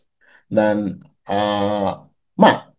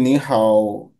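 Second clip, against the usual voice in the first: slow teaching read; 4 semitones lower, much slower than usual. Shown as a demonstration. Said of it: "নি হাও নিয়ে কিন্তু third".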